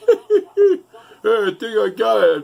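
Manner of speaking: half-laughing triumphant yell; excited laughing boast. Retold or imitated. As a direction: crow with delight over the smoke. Laughing father proud of smoke.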